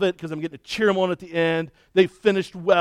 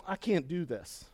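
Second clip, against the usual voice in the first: defeated mumble; 12 dB quieter, slower than usual. Retold or imitated. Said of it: "And he's like".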